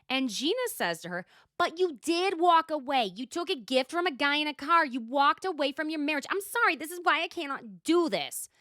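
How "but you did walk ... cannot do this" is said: louder, higher mock outburst; heated accusation. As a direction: throw accusations as an acted quote. Retold confrontation between Gina and Jen.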